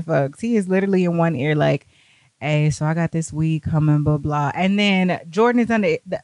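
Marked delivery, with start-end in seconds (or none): 2.4-4.5 imitating a laid-back, low-key guy; low, casual retold murmur in one ear; unbothered. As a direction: play him totally unfazed. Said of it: "Keith is so unbothered".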